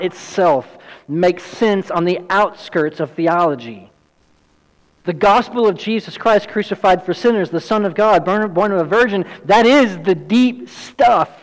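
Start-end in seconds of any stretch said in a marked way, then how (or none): 5.0-11.3 rising higher and louder to a forceful peak; building emphasis. Real, not acted. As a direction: preach it up to full force. Preacher building to climax.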